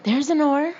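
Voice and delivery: high, loud yell across the water; calling loudly across the water to Mike. A narrator's reading. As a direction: shout to Mike out on the lake. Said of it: "I yelled to Mike".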